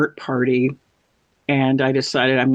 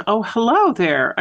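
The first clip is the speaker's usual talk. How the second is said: higher, slow mock-suave hello; smooth older man; 8 semitones higher, slower than usual. Older realtor greeting her at a party, mock-suave. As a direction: draw out the greeting like a charmer.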